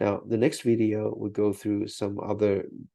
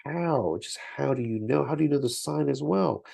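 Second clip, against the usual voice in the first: higher, incredulous "how do you know?"; puzzled student; 6 semitones higher than usual. Retold or imitated. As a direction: play the baffled student asking, pitch up. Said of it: "if you're wondering".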